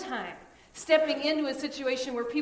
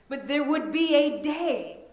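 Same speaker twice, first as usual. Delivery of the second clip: louder, slow, swelling proclamation; rising promise; 2 semitones higher, 6 dB louder, slower than usual. Real, not acted. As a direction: lift the promise of reunion. Preaching the promise.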